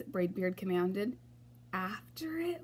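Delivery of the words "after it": soft, high frightened whisper. A narrator's reading. Crew whispering back to the captain, soft and high. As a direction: breathe it out, scared. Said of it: "we whispered".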